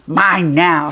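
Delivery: loud gloating sneer. A narrator's reading. Goblin taunting the boy as he grabs the scooter, sneering. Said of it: "sneered the goblin".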